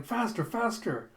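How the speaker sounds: high, drawn-out cry; urgent urging. Retold or imitated. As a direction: urge the driver on desperately. Acted urging the driver on.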